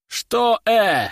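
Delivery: high, loud mocking echo of his grunt; mock him right back, teasing; mocking mimicry. Stranger in hiding mocks Buyvol's grunt, teasing. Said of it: "передразнил Буйвола незнакомец".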